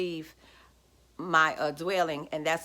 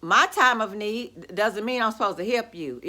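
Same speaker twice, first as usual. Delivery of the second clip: firm refusal; 2 semitones higher, 4 dB louder than usual. Retold or imitated. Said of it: "I said".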